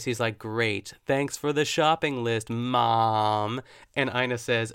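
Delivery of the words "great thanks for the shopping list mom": mock-irritated, leaning hard on "Mom"; sarcastic thanks, louder toward the end; annoyed voice. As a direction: imitate a peeved son's thanks. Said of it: "almost like this annoyed voice".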